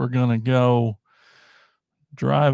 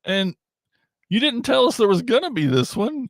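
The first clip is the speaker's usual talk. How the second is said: much higher, hammed-up whining complaint; mock whine; 11 semitones higher than usual. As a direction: whine at the toy company like a cheated kid. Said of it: "And we're like".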